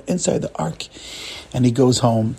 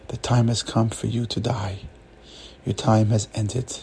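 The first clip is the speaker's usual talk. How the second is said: low, measured pronouncement; solemn angel; 5 semitones lower, 5 dB quieter than usual. Acted. Angel announcing death to the rabbi, solemn and low. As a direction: deliver the sentence softly and gravely. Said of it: "the angel says".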